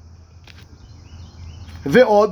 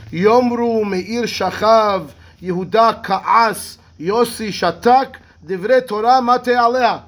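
slow recitation; much slower than usual. Acted. Quotes Gemara very slowly.

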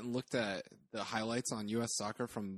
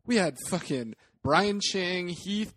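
exasperated; 5 semitones higher, 5 dB louder, slower than usual. Real, not acted. Listing a bad lineup, exasperated.

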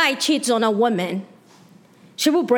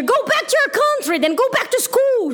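much higher, fast mock jeer; mocking heckler; 10 semitones higher than usual. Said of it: "it's better to hear".

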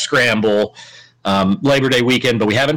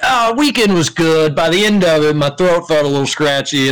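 mock sick voice; 3 semitones higher than usual. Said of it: "he was like".

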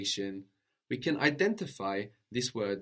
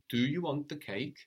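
"Do you want the cake?" rising at the end like a question; question tune; 3 semitones higher than usual. Shown as a demonstration. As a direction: make it a question with a lift at the end. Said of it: "we just can make a question tone with our voice".

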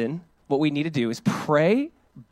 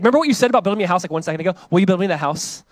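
rushed, raised-voice comic reminder; eager pestering; 3 semitones higher, 5 dB louder, faster than usual. Retold or imitated. Preacher playing David reminding God, comically eager. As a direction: blurt it out, pressing for an answer.

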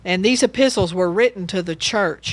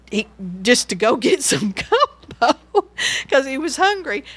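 laughing; 5 semitones higher than usual. Real, not acted.

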